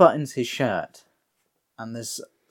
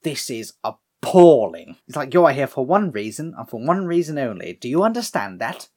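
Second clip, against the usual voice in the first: British; 4 dB louder than usual. Retold or imitated. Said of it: "One of them's British".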